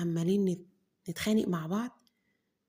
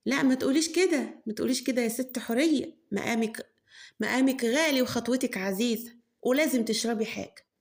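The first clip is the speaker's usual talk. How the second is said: insistent host; 4 semitones higher, 3 dB louder than usual. Acted. Mother insists guest drink something.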